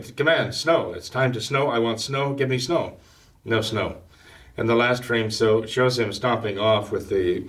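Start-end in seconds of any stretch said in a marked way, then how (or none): 0.0-3.0 put-on higher, bossy little kid ordering the sky; hammed-up childish demand; mock yell. Calvin doing his snow dance ordering the snow, mock yelling higher. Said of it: "He's yelling".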